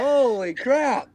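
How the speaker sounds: slow, choked-up exclamation after a bug; spluttering over a swallowed bug; just swallowed a bug. Real, not acted. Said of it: "'cause the bug flew in my mouth".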